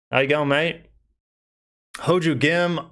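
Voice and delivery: light put-on Australian accent. Shown as a demonstration. Streamer showing off to viewers the accent picked up visiting Australia, Australian accent. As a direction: say it like a casual Aussie greeting. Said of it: "really good with my Australian accent".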